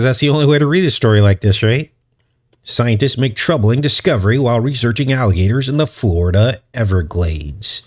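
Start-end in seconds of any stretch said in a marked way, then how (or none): 2.6-7.8 urgent news anchor voice. Pretend. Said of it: "we're gonna use our urgent news anchor voice".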